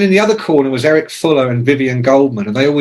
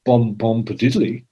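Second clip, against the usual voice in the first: light mock Jamaican lilt; mock reggae greeting; 3 semitones lower, 3 dB quieter than usual. Imitating posh reggae writer answering phone, light mock Jamaican lilt. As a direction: hum it like a lazy reggae hello. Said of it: "He'd go".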